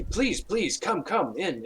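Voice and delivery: high, insistent please please; pleading welcome. Acted. Priest ushering the group in, high and pleading. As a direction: beg them in warmly.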